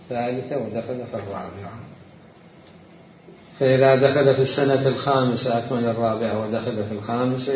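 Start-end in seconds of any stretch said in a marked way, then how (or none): 3.6-5.6 louder, measured classical Arabic reading; formal reading aloud. Real, not acted. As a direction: read the text out as a lecturer. Reads a book definition. (قراءة نص بالفصحى بصوت جهوري)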